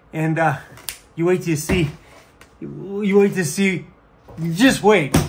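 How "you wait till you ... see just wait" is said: teasing build-up. Real, not acted. Teasing the room reveal.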